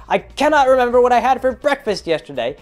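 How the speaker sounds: put-on high, loud, confused old-man voice; senile old man. Old character complaining to the party that nobody listens. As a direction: play a doddering old guy who's lost his memory. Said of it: "and I was old".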